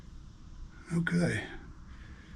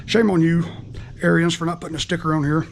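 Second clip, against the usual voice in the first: mock scolding; 6 dB louder than usual. Scolds the maker Arians jokingly.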